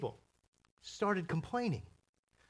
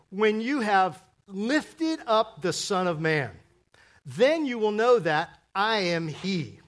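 loud, slow, solemn declaration; lofty proclamation; 6 dB louder, slower than usual. Acted. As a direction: proclaim it with full weight. Preacher quotes Jesus loftily.

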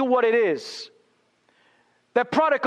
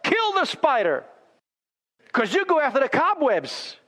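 higher, urgent cry to the Lord; pastor crying out; 5 semitones higher than usual. Retold or imitated. Pastor correcting the man's prayer, raised cry. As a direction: call out to God like the pastor. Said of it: "the pastor cried out".

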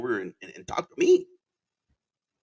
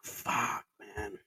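whispered curse; 3 semitones lower, 12 dB quieter than usual. Retold or imitated. Reaction to the cop's offer.

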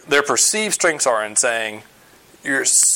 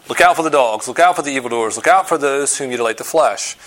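emphatic warning; 3 dB louder than usual. Retold or imitated. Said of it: "this thing deserves an exclamation mark".

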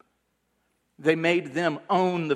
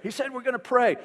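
loud, higher voice so a deaf man can hear; raised voice for a deaf old man; 11 semitones higher, 5 dB louder than usual. Retold or imitated. Preacher answering deaf old man loudly.

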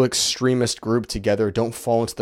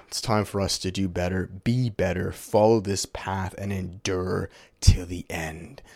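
exhausted; 3 semitones lower, 4 dB quieter than usual. Real, not acted. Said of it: "Excuse my tired eyes".

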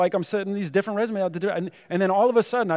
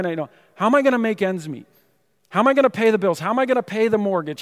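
rapid, louder anxious questions piling up; panicked worrying; 2 semitones higher, 5 dB louder than usual. Retold or imitated. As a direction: spiral into panic, one worry after another. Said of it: "you start getting scared".

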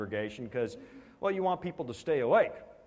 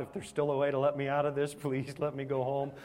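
retold prayer. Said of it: "praying and begging God".

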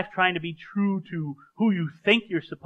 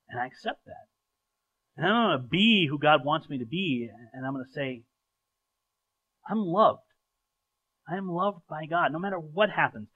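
calm prayer. Acted.

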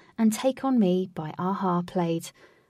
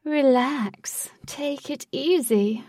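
breathy soothing whisper; creepy calming whisper; mannequin voice; 6 semitones higher, 3 dB louder, much slower than usual. Acted.

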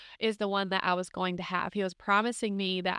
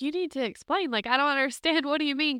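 mildly pleading, higher-pitched demand for answers; higher, lightly acted disbelief; retold confused protest; 6 semitones higher, faster than usual. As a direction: act out a bewildered pushback, pitched up.

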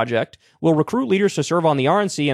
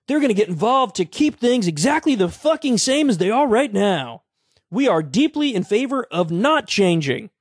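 higher, sarcastic eager voice; mock enthusiasm; 5 semitones higher than usual. Real, not acted. Host mocks young conservatives' enthusiasm with high sarcasm. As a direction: sneer at their eagerness. Mocking youth group enthusiasm.

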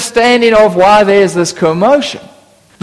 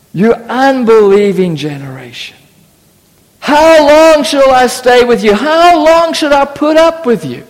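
annoyed Jesus; 2 semitones higher than usual. Retold or imitated. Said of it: "Jesus is slightly annoyed".

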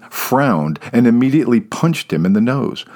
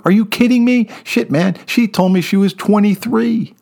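stunned outrage; shocked disbelief; 11 semitones higher than usual. Pretend. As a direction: blurt it out in horror. Shocked man learns her age.

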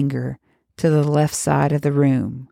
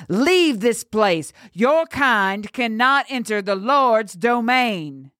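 stern priest; 7 semitones higher, slower than usual. A narrator's reading. Priest commanding the witch.

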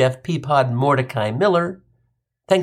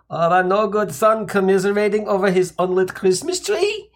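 scolding Jewish mother; 4 semitones higher than usual. Retold or imitated. Mom scolds son.

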